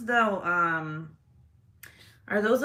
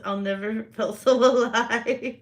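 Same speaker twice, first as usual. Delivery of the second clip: mock ecstatic; 3 semitones higher, 6 dB louder, slower than usual. Mock quote of a thrill-seeker.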